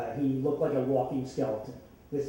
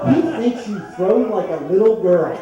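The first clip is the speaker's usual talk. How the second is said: laughing; 3 semitones higher, 8 dB louder than usual. Real, not acted. Friend's zinger, teller laughing.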